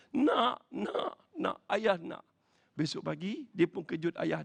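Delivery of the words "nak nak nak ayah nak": high, quick bursts of acted eagerness; eager father. Father agrees to dawn prayer with son, eagerly. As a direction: answer eagerly as a delighted father.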